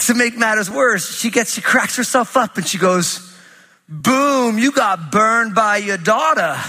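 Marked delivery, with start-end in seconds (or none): 3.9-6.6 higher, slow, laughing taunt; gloating laugh. Retold or imitated. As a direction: crow over the burn while laughing. Daughter gloating over her joke.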